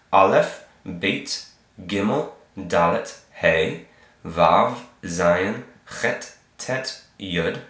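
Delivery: letter-by-letter recitation of the Hebrew alphabet; reciting the alphabet. Shown as a demonstration. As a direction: recite each letter name clearly for learners. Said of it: "Let's go through it one more time".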